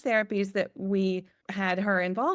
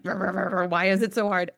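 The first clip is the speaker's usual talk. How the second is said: grumbling; 3 dB louder than usual. Retold or imitated. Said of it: "I'm grumbling".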